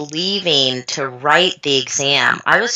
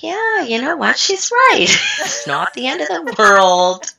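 higher, brightened inner voice; light up as it clicks; relieved realization; 4 semitones higher than usual. Retold or imitated. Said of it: "And I thought".

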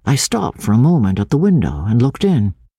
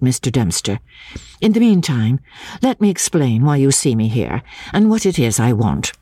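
lady's voice; 3 semitones higher than usual. Acted. Miss Halcombe voiced.

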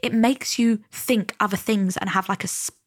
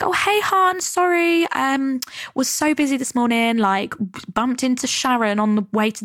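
airy, pitched-up casual greeting; breezy friend; 5 semitones higher than usual. Acted. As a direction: play a chirpy pal excusing a late reply. Acts out friend's breezy apologetic text.

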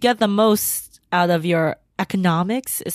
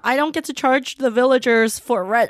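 giddy, much higher greedy glee; excited dread; 6 semitones higher than usual. Real, not acted. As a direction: squeal it with villainous delight. Gleeful slumlord fantasy.

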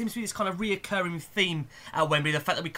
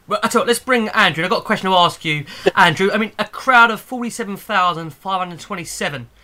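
raised, fast radio-host voice; loud host call; 7 dB louder than usual. Real, not acted. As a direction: call the guest in loudly, brisk. Host calls in next guest.

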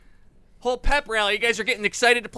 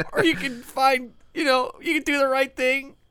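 retold principal; 4 semitones higher than usual. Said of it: "he yelled at me".

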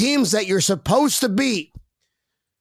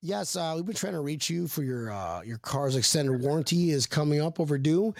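robocall; 3 semitones lower, 4 dB quieter than usual. Pretend. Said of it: "you sound like a lot like that guy that calls me".

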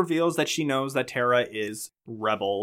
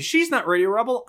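mock defiant; 8 semitones higher than usual. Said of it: "Yeah, she".

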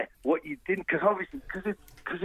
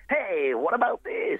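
retold eager pitch; 5 semitones higher, slower than usual. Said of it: "I was just going".

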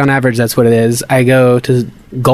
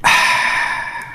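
refreshed soda sigh; 5 dB quieter than usual. Shown as a demonstration. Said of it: "guess which one I'm doing".

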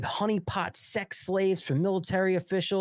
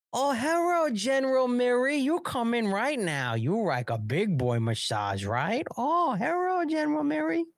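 put-on Asian accent; 7 semitones higher than usual. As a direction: caricature an Asian accent, sing-song and pitched up. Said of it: "Asian accent comes".

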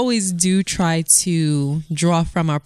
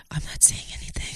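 whispered, unvoiced refusal; 12 dB quieter than usual. Daughter staying out of it, whispered. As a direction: hush it like a secret.

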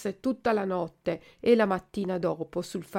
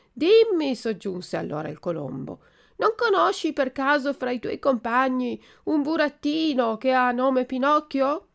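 high, loud bird voice questioning; a curious pigeon probing; pigeon asking; 5 semitones higher, 3 dB louder than usual. Acted. Pigeon asking the puppet about Pinocchio, high inquisitive voice.

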